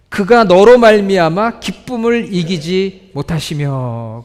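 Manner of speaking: drawn out, leaning on 너로; scripture read with weight; slow emphatic reading. Shown as a demonstration.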